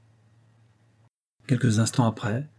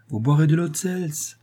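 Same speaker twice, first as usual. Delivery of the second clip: laughing harder; 7 semitones higher, 3 dB louder than usual. A narrator's reading. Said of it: "répondit-elle en riant plus fort".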